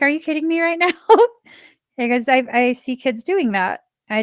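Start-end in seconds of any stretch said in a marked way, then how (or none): 0.0-0.9 laughing disbelief. Retold or imitated. Laughing at son's tantrum.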